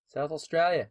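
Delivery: light mock Aussie accent; Australian accent. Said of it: "my Australian accent's really good".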